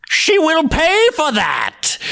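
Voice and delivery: high, slow vengeful voice; angry blizzard sisters; roaring blizzards. Acted. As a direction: roar it like a storm. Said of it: "they roared".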